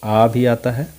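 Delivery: "आ" said as a long open "aa"; long open vowel. Shown as a demonstration. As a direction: show "आ" as the open sound in "car". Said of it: "ये क्या क्या आता है". ("आ" का लंबा, खुला उच्चारण)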